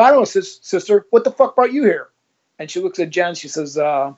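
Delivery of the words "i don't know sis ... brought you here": pitched-up mocking insolence; rude mock respect. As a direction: spit it out with cheeky contempt. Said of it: "I would never speak like this to anybody".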